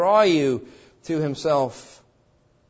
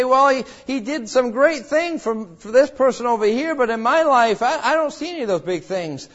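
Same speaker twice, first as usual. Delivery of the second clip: discouraged Christian; 7 semitones higher, 4 dB louder than usual. Retold or imitated.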